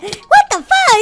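high, loud outraged cry; shocked yell. Acted. Gamer yells at the clone who copies his voice. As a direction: shout it in stunned outrage.

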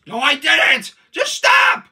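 high, loud protest breaking upward; exasperated shout. Acted. Denying screaming first to the other character, exasperated shout. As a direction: shout down the accusation.

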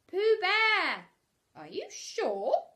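high, loud doubtful question; surprised. Acted. Rabbit doubting it's really Pooh, surprised. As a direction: sound truly astonished. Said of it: "still more surprised".

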